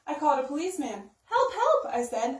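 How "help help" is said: high, loud cry of help; calling for help. Acted. Boy on the phone to police, loud high cry for help.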